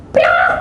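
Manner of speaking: imitated sudden bird screech; bird squawk. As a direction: squawk like a startled cage bird. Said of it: "jangan teriak-teriak". (pekikan burung tiruan)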